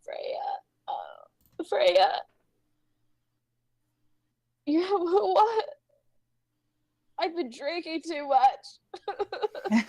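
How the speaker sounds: put-on sobbing drunk. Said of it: "and he begins to sob".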